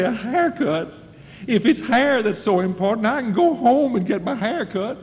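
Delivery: hammed-up student indignation; mock indignant student. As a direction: play the outraged teenager, pitch up. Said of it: "you walk off in a rage".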